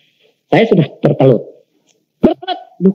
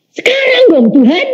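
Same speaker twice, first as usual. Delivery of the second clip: pleading. Retold or imitated. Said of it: "saya bilang".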